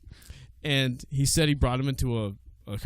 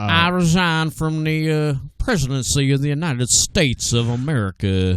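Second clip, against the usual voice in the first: Ted Cruz. Acted. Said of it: "the night that Ted Cruz resigned".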